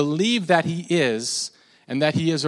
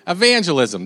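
higher-pitched, Jersey-sounding evangelism; badly faked British accent drifting to Jersey; botched accent, like Jersey; 4 semitones higher, 4 dB louder than usual. Shown as a demonstration. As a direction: slip into a mock Jersey accent. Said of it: "it's like Jersey".

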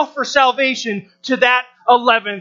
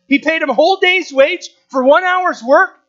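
higher, rising disbelief on work; incredulous question; 5 semitones higher than usual. Retold or imitated. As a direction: voice the shocked listener. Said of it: "Murmur amongst yourselves".

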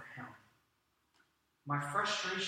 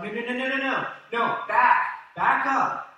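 frustrated disciples; 5 semitones higher, 8 dB louder than usual. Retold or imitated. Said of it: "the disciples' frustration as they're like".

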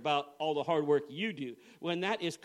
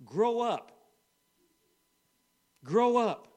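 rising to a forceful order, higher and louder on the second; stern command; 4 semitones higher, 5 dB louder, slower than usual. Retold or imitated. Holy Spirit rebuking the weeping pastor, loud stern order. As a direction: bark it out like a rebuke. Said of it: "He was telling me".

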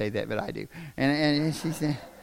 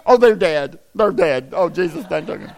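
mock panic; 8 dB louder than usual. Mock panic over unanswered call.

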